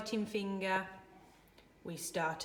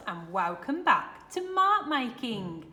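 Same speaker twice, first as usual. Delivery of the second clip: put-on kids party host; 6 dB louder than usual. Children's TV host greeting.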